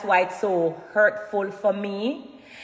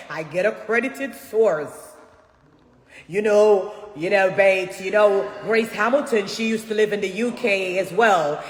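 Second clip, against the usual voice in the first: slow, measured British broadcaster imitation; put-on British accent, stretched out slowly; mock British accent; 3 semitones lower, slower than usual. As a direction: mimic a radio host's British accent, lower and drawn out. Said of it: "big and loud in your British accent".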